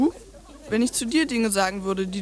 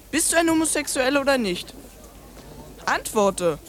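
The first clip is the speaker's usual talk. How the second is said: furious demand; 3 semitones higher than usual. Acted. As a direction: bark it at him. Child demands answer, kicks uncle.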